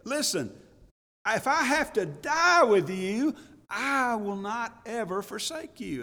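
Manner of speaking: protesting, slow on Lord, no way; an indignant disciple swearing loyalty; indignant Peter. Acted. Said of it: "he says".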